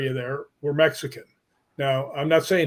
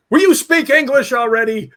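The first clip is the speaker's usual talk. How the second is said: much higher and louder, teasing exasperation; exasperated yell; 9 semitones higher, 8 dB louder than usual. Retold or imitated. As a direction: shout it at your Scottish friend in mock despair. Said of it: "I'll turn around and say".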